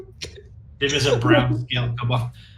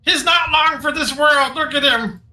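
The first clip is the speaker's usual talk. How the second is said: high squeaky kobold; insistent little kobold; 12 semitones higher than usual. Acted. Sir Dim argues.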